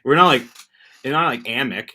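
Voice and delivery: Amec said as the wrong version; "Amec" spoken as the odd pronunciation; Canadian mocking the "Amec" version; not Amec. Shown as a demonstration. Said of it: "we say hammock".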